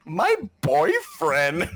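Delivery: hammed-up teen drama; mock melodrama. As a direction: stretch it out like an overdone soap line. Mocking the show's sudden melodrama.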